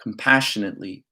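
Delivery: measured spoken-word reading, phrase by phrase; spoken-word poem delivery; poetry recitation. Acted. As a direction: recite your poem with deliberate pauses. Reads own poem aloud.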